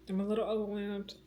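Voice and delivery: half-laughing admission. Real, not acted. Repeats it with a laugh.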